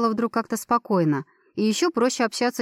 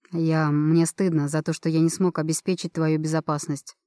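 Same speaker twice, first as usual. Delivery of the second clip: ashamed man's voice; 4 semitones lower than usual. Acted. Roman ashamed, low and slow.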